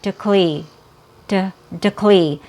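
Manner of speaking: "decli" with a quick light D tap; "decli" as two light reduced syllables; fast D. Shown as a demonstration. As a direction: tap the D in "decli" and run into "klee". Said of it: "the fast D".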